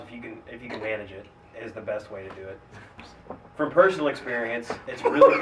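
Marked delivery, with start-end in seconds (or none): 3.6-5.4 laughing. Real, not acted. Laughs through own joke.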